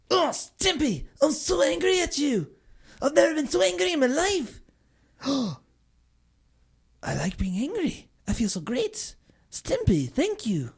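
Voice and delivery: a terrible fake Cockney British accent, high and loud; bad British accent. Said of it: "were you trying to do an Irish accent".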